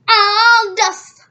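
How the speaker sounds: shrieking high German mama cry; loud hammed-up German cry. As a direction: wail it in a mock German accent. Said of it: "I'm trying to have that German voice".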